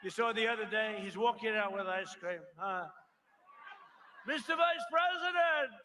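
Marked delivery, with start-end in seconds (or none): 4.3-5.7 higher, louder sing-song reporter voice; mock fawning reporter. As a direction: ham up a toadying journalist. Mocking soft reporter question.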